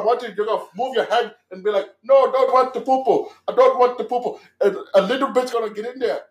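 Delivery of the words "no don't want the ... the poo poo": mock victim. Mock voicing a victim refusing.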